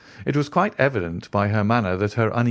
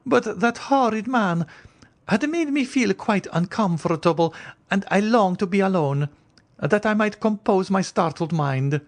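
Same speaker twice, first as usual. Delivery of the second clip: higher, anxious noblewoman's voice; the Countess; 11 semitones higher than usual. Acted. Countess warning Franz away from the stranger, higher anxious voice.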